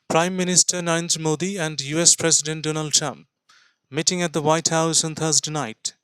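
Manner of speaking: slow, careful news read-aloud. Shown as a demonstration. Teacher reads the full text aloud for listening practice. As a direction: read the headline slowly and clearly. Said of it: "গোটা টেক্সটটা আমি পড়ছি".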